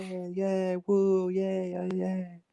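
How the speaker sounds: limp quiet yay; half-hearted cheer. Acted. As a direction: cheer without enthusiasm. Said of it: "you're supposed to do that with me".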